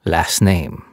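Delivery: firm falling demand, friendly tone gone; stern repeat. Acted. French cop insisting on the captive's last name, stern repeat. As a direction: insist on it flatly. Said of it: "the policeman said again".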